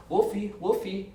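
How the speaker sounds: slow high sing-song Wolfie; hint of a wasted wrestler calling Wolfie; drunk Marty calling. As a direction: croon it slowly like a drunk out of it. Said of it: "this guy's fucking out of it".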